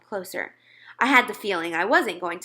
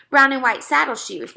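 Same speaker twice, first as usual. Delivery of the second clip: mother reminding; 5 semitones higher, 7 dB louder than usual. A narrator's reading. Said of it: "my mother reminded him".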